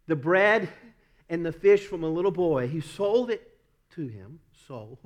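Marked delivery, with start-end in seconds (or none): 2.7-5.0 southern accent. Real, not acted. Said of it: "that southern accent comes out".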